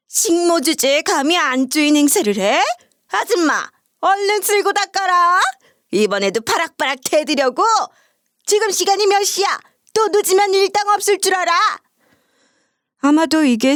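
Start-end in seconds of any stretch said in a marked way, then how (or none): 0.1-9.6 high, haughty mistress scolding the help; possessed mother-in-law imitation. A narrator's reading. Sister-in-law mimics her mother scolding the housemaid, high imperious voice. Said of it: "빙의당한 것처럼 시모 목소리와 말투를 똑같이 따라하더니". 9.9-11.5 high, imperious threat in a mimicked voice; mother-in-law imitation. A narrator's reading. Mistress warning her late housemaid, high mimicked scolding. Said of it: "시모 목소리와 말투를 똑같이".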